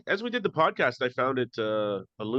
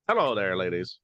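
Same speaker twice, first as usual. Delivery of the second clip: put-on lower-pitched, botched northern British accent; bad northern British accent; 4 semitones lower than usual. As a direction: greet them in a dubious northern British accent. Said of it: "northern, uh, Britain".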